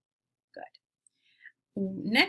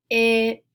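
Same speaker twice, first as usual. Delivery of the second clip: "i" punched much louder as the peak of the word; stressed vowel; 2 semitones higher, 9 dB louder than usual. Shown as a demonstration. Teacher to class, showing the middle vowel, stressed loud. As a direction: hit the vowel "i" hard, like the top of a roller coaster. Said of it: "really emphasizing that middle vowel sound".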